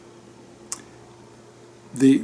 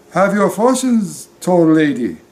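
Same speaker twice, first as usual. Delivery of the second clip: lightly voiced gypsy beckoning a customer; gypsy fortune teller; 5 semitones higher, 4 dB louder than usual. Gypsy hawks fortunes at table.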